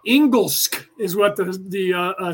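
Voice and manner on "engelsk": "Engelsk" with a hard g and closing sk; Swedish word for English. Shown as a demonstration. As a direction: say "Engelsk" as Swedes do. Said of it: "Swedes call it".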